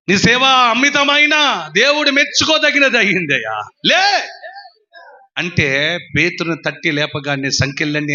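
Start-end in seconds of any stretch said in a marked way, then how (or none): 0.1-4.3 angel's rising call. Acted. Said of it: "angel calls Peter to rise".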